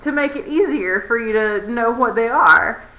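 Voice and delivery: overly polite, loud customer-service voice; sugary politeness covering irritation; very politely. Retold or imitated. Barista retelling her reply to a clueless customer, mock-polite. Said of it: "uh, very politely".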